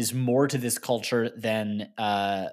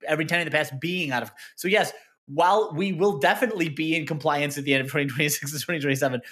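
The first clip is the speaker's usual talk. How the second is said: a lightly voiced, defensive PR spokesman, higher; mock spokesman; 4 semitones higher than usual. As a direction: play a slippery university spokesman. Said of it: "MSU spokesman".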